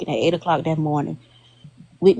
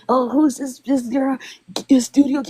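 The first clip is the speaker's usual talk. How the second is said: imitating him; 8 semitones higher than usual. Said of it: "he was like".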